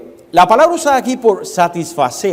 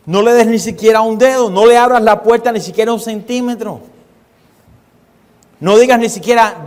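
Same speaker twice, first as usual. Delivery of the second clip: higher and louder commands; forceful exhortation; 4 semitones higher, 4 dB louder than usual. Acted. Preacher exhorting the church not to give in, forceful. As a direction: drive each prohibition home.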